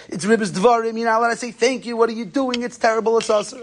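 lightly acted rabbi's reprimand; retold scolding lecture. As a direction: rattle off an imitated telling-off. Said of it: "starts giving him a hazad drasha".

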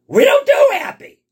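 high, loud punch on do; a preacher's big emphatic shout; emphatic declaration. Acted. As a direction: proclaim it to the whole room. Punchline of the lesson.

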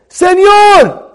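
loud high shout across the store; calling out. Retold or imitated. Man shouting to a janitor behind closed shop doors. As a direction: shout to get the worker's attention.

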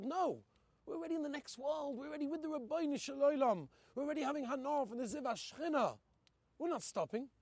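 high, loud, ecstatic refusal; joyous defiance. Acted. Hasidim to the Nazi guards, joyful defiant refusal. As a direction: sing out the refusal as if already in heaven.

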